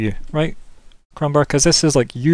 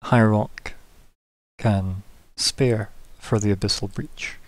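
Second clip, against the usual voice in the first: smirking governor. Acted. Governor offers aid for the breach, measured and slow. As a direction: speak as a ruler concluding business, unhurried. Game master voices the governor.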